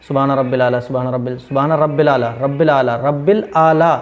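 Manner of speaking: quick, run-together "सुबहान रब्बिल आला"; common mistaken recitation. Shown as a demonstration. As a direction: shorten "रब्बिल" and hurry into "आला". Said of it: "ये गलत है". ("सुबहान रब्बिल आला" जल्दी में, गलत)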